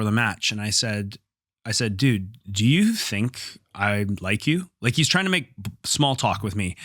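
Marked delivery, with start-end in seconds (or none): 2.0-4.7 slow, drawn-out retold challenge; deliberate, incredulous question. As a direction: stretch the question out slowly, confronting a rival. Retold confrontation before the match.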